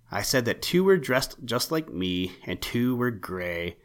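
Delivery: a touch impatient, repeating himself; mildly sharp repeat. Acted. Owl repeating himself to puzzled rabbit, mildly sharp. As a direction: say it again with slight irritation. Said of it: "replied Spooky rather sharply".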